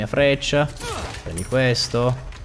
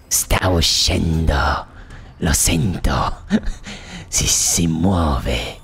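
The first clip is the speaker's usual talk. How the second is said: much lower, very slow strained grunting voice; mock straining enemy; 11 semitones lower, much slower than usual. Gamer voicing an enemy caught pooping, slow deep mock strain. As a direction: play the enemy straining on the toilet, deep and slow, ending almost whispered.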